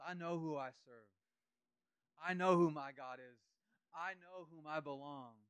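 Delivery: loud, slow, pressing "know"; slow proclamation. Acted. Preacher voicing Paul's certainty, slow and loud. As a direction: declare it slowly, leaning on "know". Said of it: "He says".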